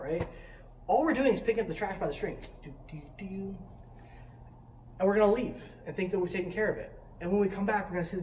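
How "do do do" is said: very soft, absent-minded doo-doo; carefree little ditty. Acted. Pretending to pick up trash by the stream, soft carefree ditty. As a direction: trill it softly to yourself.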